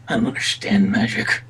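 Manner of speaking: hushed aside to himself; whispering. Acted. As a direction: whisper it under the breath. Drake muttering to himself.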